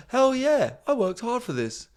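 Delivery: loud, high mock triumph; triumphant whoop. Comic playing a smug yacht guest, loud mock whoop. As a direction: punch the air, hammed-up.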